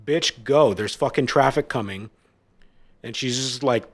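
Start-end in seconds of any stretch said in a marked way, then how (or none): 0.0-2.1 louder, irritated shout back; mock yell back. Yelling back at the woman.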